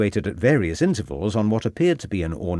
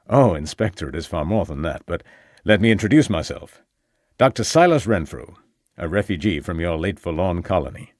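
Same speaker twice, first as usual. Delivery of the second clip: put-on American accent; 3 semitones lower than usual. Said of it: "said the American owner of the voice".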